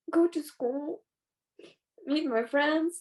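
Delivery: normal talking voice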